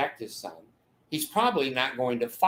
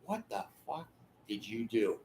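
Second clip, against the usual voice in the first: a hissed, much softer wife's whisper, barely voiced; furious whisper; 3 semitones lower, 11 dB quieter than usual. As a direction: whisper it like a wife holding in her rage. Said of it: "They're gonna whisper".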